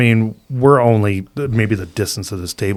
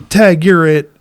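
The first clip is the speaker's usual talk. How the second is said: a touch higher, bright taunt; friend's taunt at agent; playful taunt; 7 semitones higher, 5 dB louder, slower than usual. Retold or imitated. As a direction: tease the agent. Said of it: "And he goes".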